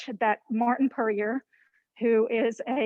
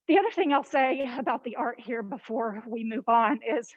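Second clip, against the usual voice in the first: slightly winded while talking; out of breath. Real, not acted. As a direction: speak a bit breathless after walking. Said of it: "I'm a little bit out of breath already".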